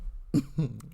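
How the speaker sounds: a short breathy laugh at herself; rueful laugh. Real, not acted. Preacher recalling her donut disaster, laughing softly. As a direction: laugh off the memory of the ordeal. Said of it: "I'm laughing because".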